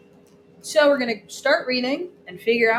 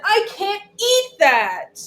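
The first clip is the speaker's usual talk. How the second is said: whiny crying; 9 semitones higher, 6 dB louder, slower than usual. Acted. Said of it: "I cried and cried".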